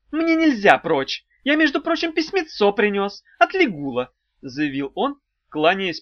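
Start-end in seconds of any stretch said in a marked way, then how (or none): 0.1-4.1 businesslike. A narrator's reading. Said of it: "стал деловитым".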